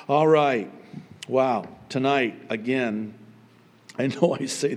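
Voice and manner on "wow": usual speaking voice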